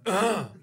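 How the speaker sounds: a mild grunt of road rage; a short disgusted ugh while flipping off; aggressive grunt. Retold or imitated. Angry driver at the car that cut him off, mild grunt. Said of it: "I even made a noise when I did it".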